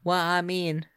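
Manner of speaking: put-on lilting Southern US accent; Southern accent, explaining with interest; Southern belle. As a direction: talk like a Louisiana Southern belle. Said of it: "Come on, Southern Belle, y'all".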